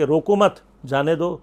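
"روکو مت" together, then "جانے دو"; group روکو with مت, break, then جانے دو; pause after مت. Shown as a demonstration. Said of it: "اور باقی سمجھیں گے کہ".

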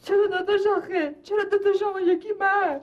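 whiny, tearful complaint at the unfair share; tearful protest. Acted. Sister protests the unequal inheritance split, tearful and whiny. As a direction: plead through tears for an equal cut.

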